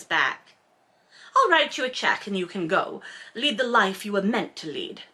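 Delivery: reading the novel aloud, measured and even; story narration. A narrator's reading. Host reads the romance novel to listeners, in narration voice. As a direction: narrate the scene like an audiobook.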